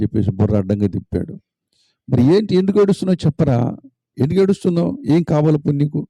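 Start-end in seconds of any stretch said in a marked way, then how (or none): 2.1-6.1 high, pressing father's questions; worried father. Acted. Father pressing his weeping son, high and urgent. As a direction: push him to say why he cries.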